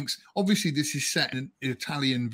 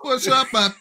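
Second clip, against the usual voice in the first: badly attempted impression; 8 semitones higher, 5 dB louder, slower than usual. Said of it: "Can't do that one".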